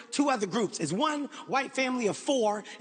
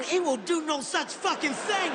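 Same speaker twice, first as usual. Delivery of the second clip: higher, slow emphatic refusal; acted indignation, drawn out; indignant refusal; 4 semitones higher than usual. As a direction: put your foot down as an outraged father. Indignant father refusing the tour guide.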